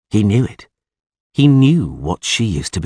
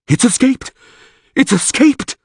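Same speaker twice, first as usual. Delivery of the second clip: high excited calls, much higher and louder; calling out; 4 dB louder than usual. A narrator's reading. Priest Krep calls out as the genie escapes. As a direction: shout it to the whole square. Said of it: "called Krep".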